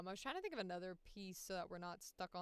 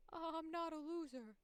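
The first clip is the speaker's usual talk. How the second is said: higher, falling protest; protesting character; 9 semitones higher than usual. Retold or imitated. Song character insisting on not losing, higher and falling. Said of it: "And then he goes".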